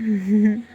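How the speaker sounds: brief closed-mouth laugh; short chuckle. Acted. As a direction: chuckle under your breath. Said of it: "हंसते हुए कहते". (हल्की दबी हँसी)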